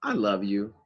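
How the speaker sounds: sugary flattery, laying it on thick; butter up mom to get something; sweet-talking. Retold or imitated. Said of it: "You go up to your mom and you go".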